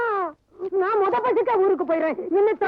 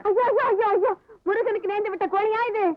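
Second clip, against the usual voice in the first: horrified wailing; 4 semitones higher than usual. Acted. Horrified at the vowed chicken.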